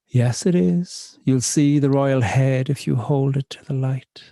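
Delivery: slow, deliberate spoken-word storytelling; poem reading. Acted. Poet reading her pub poem to the audience, slow and deliberate. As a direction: read it to the room, savouring the lines. Reads poem Enjoy your pint.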